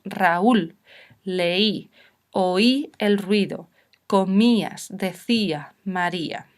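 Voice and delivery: "Raúl, leí, oí" word by word, each accented vowel in its own syllable; stressed weak vowels. Shown as a demonstration. Teacher listing examples of accented hiatus, weak vowels stressed and separated. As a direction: lean on the í in "comías", "decía", "María", measured. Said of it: "las tenemos que separar y decimos".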